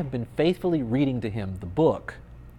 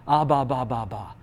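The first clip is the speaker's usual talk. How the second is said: imitated baby babble. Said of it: "He looks at me and says".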